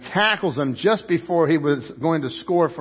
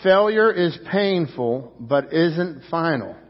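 slow, deliberate line for a congregation to join; measured call to recite together; leading group recitation; slower than usual. Real, not acted. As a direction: say it slowly so everyone can follow. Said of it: "Would you say that with me?".

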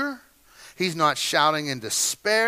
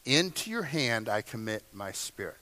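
much softer and lower, hushed; child's prayer; 7 semitones lower, 7 dB quieter than usual. Retold or imitated. Jewish children saying their nightly prayer, hushed. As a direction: murmur it like a child at bedtime. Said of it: "teach all the little Jewish children to pray".

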